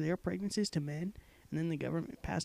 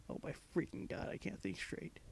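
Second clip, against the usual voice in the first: breathless whisper; 8 dB quieter than usual. Real, not acted.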